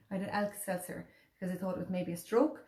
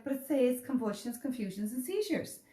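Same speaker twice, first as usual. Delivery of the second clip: pressing the point on the doctors; insistent husband; 5 semitones higher than usual. Retold or imitated. Husband arguing with the consultant, insistent raised voice. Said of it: "Jamie's like".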